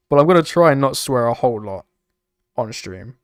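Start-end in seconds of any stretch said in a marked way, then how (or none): 0.1-1.9 loud, with TRY given the weight; stress on TRY. Real, not acted. Streamer promising viewers less swearing, stress on "try". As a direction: lean on the word "try". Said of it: "emphasis on the word try".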